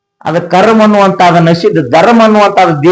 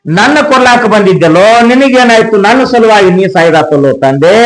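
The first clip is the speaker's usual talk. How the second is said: crying; 5 semitones higher than usual. Acted. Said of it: "ಮಗಳ ಅಳ್ತಾಳ".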